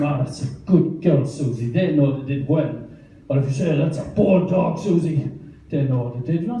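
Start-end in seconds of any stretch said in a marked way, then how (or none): 0.0-1.7 gentle praise for a dog; nice tone. Shown as a demonstration. Owner being nice to the dog, mild approving tone. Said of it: "if you're being nice to them". 3.8-5.3 mild telling-off, pitched slightly up; scolding tone. Shown as a demonstration. Owner telling dog it misbehaved, mild scolding tone. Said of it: "It's tone".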